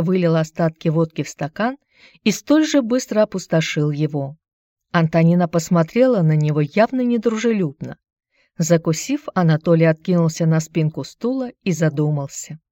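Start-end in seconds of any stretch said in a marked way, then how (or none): none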